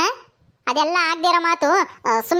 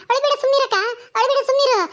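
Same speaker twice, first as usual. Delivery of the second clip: higher-pitched, urgent hushing; consoling; 5 semitones higher than usual. Acted. Younger sister to crying elder sister, consoling. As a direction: soothe someone who is crying.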